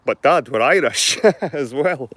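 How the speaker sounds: son's reply. Retold or imitated.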